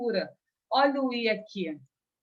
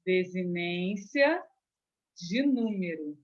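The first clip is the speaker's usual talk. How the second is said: slow, deliberate term; 3 semitones lower, slower than usual. Shown as a demonstration. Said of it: "E o S vai ser o quê?".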